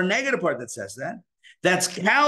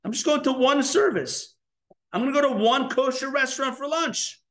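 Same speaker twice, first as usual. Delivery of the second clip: higher, light, casually coaxing self-talk; 7 semitones higher than usual. Retold or imitated. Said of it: "Tell yourself".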